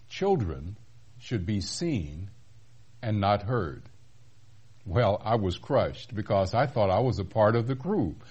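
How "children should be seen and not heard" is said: slow, measured mock-stern reprimand; stern rebuke. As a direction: imitate a stern elder, pausing between phrases. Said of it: "looked at me quite sternly and said".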